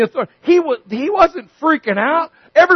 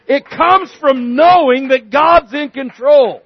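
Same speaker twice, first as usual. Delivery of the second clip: louder emphatic; 4 dB louder than usual. Real, not acted. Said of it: "louder repeat".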